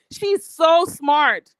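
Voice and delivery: slow, mocking so smart; sarcastic drawl. Real, not acted. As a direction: drag it out with scorn.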